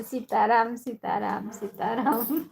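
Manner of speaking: lightly imitated devotional chant; Lucky didi. Host showing how another woman talks, light imitation. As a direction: repeat it as a light mimicry of her catchphrase. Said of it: "ऐसे बोलती हैं".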